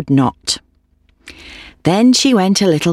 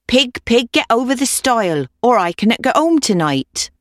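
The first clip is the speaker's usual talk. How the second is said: lightly voiced old woman, higher; old woman's voice; 7 semitones higher than usual. A narrator's reading. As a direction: plead a little, in a higher voice.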